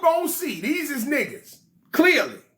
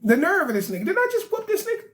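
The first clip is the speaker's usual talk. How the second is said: indignant king; 6 semitones higher than usual. Acted. Anu on the voicemail.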